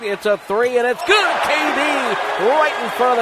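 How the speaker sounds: rising play-by-play thrill; excited scoring call. Real, not acted. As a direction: pitch leaps on the made shot. Live call of a made three.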